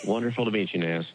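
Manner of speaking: polished broadcaster's greeting; a hint of broadcast voice. Real, not acted. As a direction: greet them like a radio host. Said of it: "do you hear that broadcast voice?".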